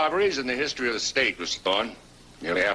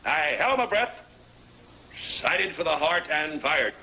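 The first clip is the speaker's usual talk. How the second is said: slow, dramatic hunting tale; big game hunter; 2 semitones higher, slower than usual. Acted. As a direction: relive the shot, savoring each beat. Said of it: "I guess I got a little bit carried away".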